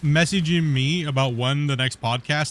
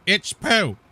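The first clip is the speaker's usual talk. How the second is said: higher, louder put-on grumble; mock blunt complaint; 7 semitones higher, 4 dB louder than usual. Streamer showing fans how not to report, mock blunt complaint. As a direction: blurt it out like a lazy complainer. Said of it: "Don't just be like".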